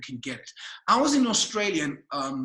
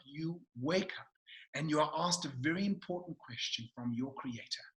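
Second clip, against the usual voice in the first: hushed reverence; 2 semitones lower, 6 dB quieter than usual. Real, not acted. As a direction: hush it, listing each name with space. Hushed build-up before the punchline.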